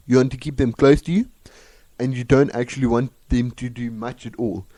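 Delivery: put-on Afrikaans accent. Host warns about South Africans in an Afrikaans accent. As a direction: advise listeners in an Afrikaans accent. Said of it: "with an Afrikaans accent".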